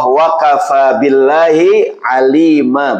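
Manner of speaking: slow, drawn-out verse recitation; slow chanted Quran quote; Quranic recitation. Acted. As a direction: intone the Arabic slowly and reverently.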